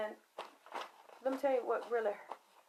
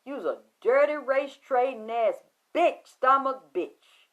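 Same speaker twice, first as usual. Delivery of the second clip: yelled insults; 5 dB louder than usual. Retold or imitated. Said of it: "I say".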